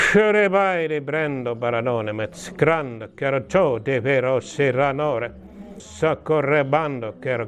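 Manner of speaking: slow, measured glossolalia; speaking in tongues. Real, not acted. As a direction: draw each syllable out slowly. (hidasta kielillä puhumista)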